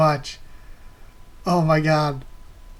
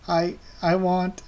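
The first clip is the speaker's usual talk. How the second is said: put-on crying dwarf boy; 3 semitones higher, slower than usual. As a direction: choke it out like a grieving kid. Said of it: "and he's crying".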